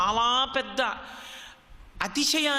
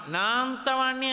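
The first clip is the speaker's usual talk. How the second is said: నా అంతవాణ్ణి lifted higher, puffed with pride; proud boast; 5 semitones higher than usual. Shown as a demonstration. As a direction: repeat నా అంతవాణ్ణి higher, more self-important. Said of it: "అన్నాడంటే ఏదో ఒక విభూతి". (ఎత్తైన స్వరంలో గర్వంగా నా అంతవాణ్ణి)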